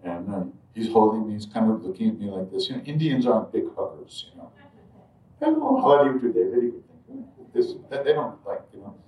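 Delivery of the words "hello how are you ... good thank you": lightly mimicked polite pleasantries; a hint of stiff courtesy; formal greeting. Householders politely greeting without hugs, lightly mimicked formality.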